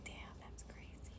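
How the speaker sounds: breathless, stunned whisper. Retold or imitated. Girlfriend seeing the hickeys, whispering in shock. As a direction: barely get the words out, in shock.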